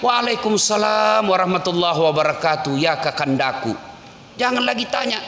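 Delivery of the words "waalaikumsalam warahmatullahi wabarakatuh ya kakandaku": loving wife. Retold or imitated. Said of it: "Dijawab oleh istrinya".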